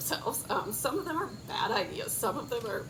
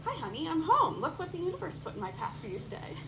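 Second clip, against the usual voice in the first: playful spouse voice; 5 semitones higher than usual. Acted. Acted quote of partner.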